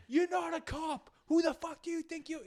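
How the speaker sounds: high mock yell of a furious driver; mimicking a Revere driver's high, raging scream; angry old guy. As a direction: imitate the Jeep driver screaming.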